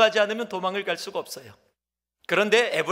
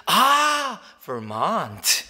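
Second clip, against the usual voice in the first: mock native speaker; much slower than usual. Preacher imitating the American correcting his Belmont. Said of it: "그가 다시 얘기를 해줘".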